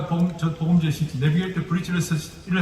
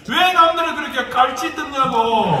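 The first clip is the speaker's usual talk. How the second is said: Gyeongsang dialect; 6 semitones higher, 3 dB louder, slower than usual. Retold or imitated. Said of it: "경상도 사투리로".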